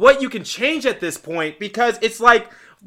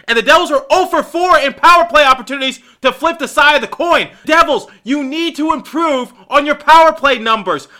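heated rant; 5 semitones higher than usual. Real, not acted. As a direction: let the frustration boil over. Fan ranting at team.

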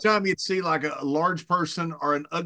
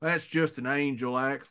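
softer, hushed and adoring; dreamy gushing; 7 dB quieter than usual. Retold or imitated. Bart, a few beers in, gushing softly about the singer on TV. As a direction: gush over her like a man in love.

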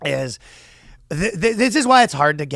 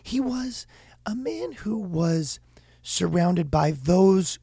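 slow, softer, drawn-out professor voice; Sam Harris professor; 3 semitones higher, 3 dB quieter than usual. Retold or imitated. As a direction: ponder every word at half speed. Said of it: "the Sam Harris University professor".

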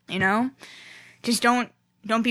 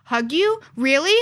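higher, mildly shocked fan imitation; 3 semitones higher, slower than usual. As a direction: imitate a fan taken aback by the offer. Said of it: "always so shocked to meet me".

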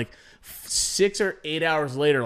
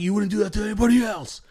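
higher, fast mock protest; retold angry yelling; 6 semitones higher, faster than usual. Dad accusing the cop of unfairness, imitated heated protest. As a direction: rattle off an indignant complaint. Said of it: "Dad was, like, yelling at Tony".

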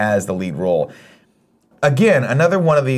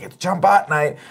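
mock chirpy girlfriend; 8 semitones higher, slower than usual. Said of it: "She's like".

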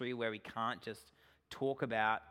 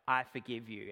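passive-aggressive; 4 semitones lower than usual. Retold or imitated. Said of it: "we do this passive-aggressive".

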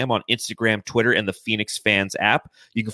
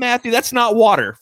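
mock surprised; 12 semitones higher, 4 dB louder than usual. Real, not acted. Teasing cohost's drink.

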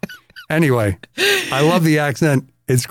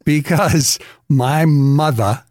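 Boston accent; 3 semitones higher than usual. Shown as a demonstration. Telling a story about mom's car, in a Boston accent. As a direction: put on a Boston accent like the radio hosts. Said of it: "gonna talk like they talked".

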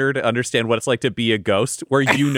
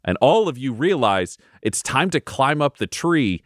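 solemn narration. A narrator's reading. DM's solemn scene setting.

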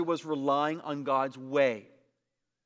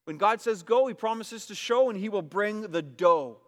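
louder second take of the hook; louder repeat of catchphrase; 6 semitones higher, 5 dB louder than usual. Shown as a demonstration. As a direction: go punched loud and rising, show stretched. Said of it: "You see that?".

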